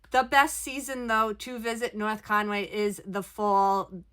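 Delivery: small room echo inside a trailer; speaking inside a small RV; recorded in an RV. Real, not acted. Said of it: "I am recording from my R V".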